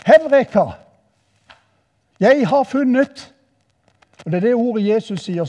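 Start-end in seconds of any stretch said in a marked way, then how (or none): 0.0-3.3 high, loud cry of discovery; shouted exclamation. Retold or imitated. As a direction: call it out loud and high, triumphant eureka. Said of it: "og så ropte han bare".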